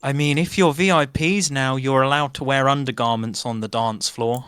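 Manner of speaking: a prim desk clerk informing guests. Acted. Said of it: "sees the group of you and goes".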